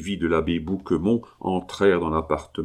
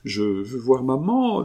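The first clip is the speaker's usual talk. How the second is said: put-on higher child's voice, a light touch of tears; a little girl pleading through understated tears; crying child; 6 semitones higher than usual. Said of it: "dit en pleurant Abeille". (enfant qui pleure, voix plus aiguë)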